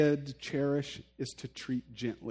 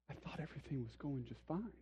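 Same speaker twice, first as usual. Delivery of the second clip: clueless husband; 2 semitones lower, 15 dB quieter than usual. Retold or imitated. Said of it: "And the dude says".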